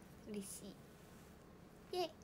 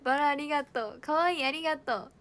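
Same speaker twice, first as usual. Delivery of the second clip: usual speaking voice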